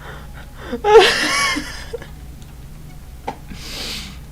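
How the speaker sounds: high, voiceless wheezing laugh; breathless cry-laugh. Real, not acted. Gamer laughs himself breathless at his old base.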